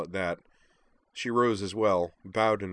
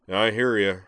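booming giant; 6 dB louder than usual. Acted. Moose booms at table.

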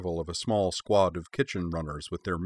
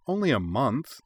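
playful protest, a bit higher; mock objection; 5 semitones higher than usual. A narrator's reading. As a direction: object in jest. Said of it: "Minami mock objected".

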